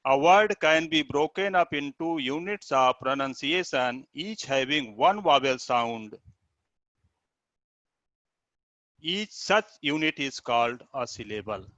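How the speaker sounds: slow, measured definition reading; reading aloud. Acted. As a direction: read out the definition slowly. (धीमे से परिभाषा पढ़ना)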